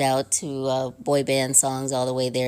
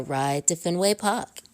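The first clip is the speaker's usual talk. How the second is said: lightly put-on Boston accent; joking touch of Boston on the place name; horrible Boston accent; 5 semitones higher than usual. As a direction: slip into a bad imitation Boston accent. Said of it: "that's a horrible Boston accent".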